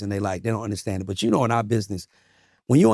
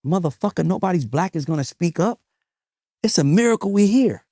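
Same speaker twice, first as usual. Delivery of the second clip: mild retold anger; 6 semitones higher than usual. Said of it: "I got so mad at him".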